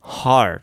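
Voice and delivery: "heart" with tongue curled into an r at the end; American-style r-coloured "heart". Shown as a demonstration. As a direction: stretch "heart" and round off with an r. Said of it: "ちょびっと舌を最後丸めて".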